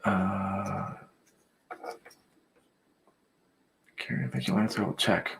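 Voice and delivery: hushed so nobody wakes; whispering on the phone. Real, not acted. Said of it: "I have to whisper".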